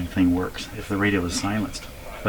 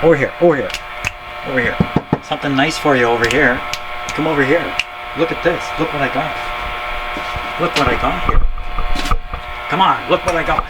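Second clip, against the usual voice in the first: calling from far away; 4 semitones higher, 3 dB louder than usual. Real, not acted. Coaxing a pet to come.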